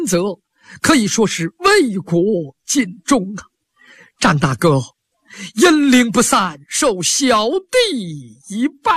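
kneeling mourner crying out to his dead brother; Hai Rui weeping at the grave, dragging the last words; tearful lament. Acted. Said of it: "泪如涌泉".

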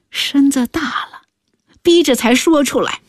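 whispered, hushed and embarrassed; ashamed whisper. Acted. Mother confessing her daughter's pregnancy to the scholar, whispering.

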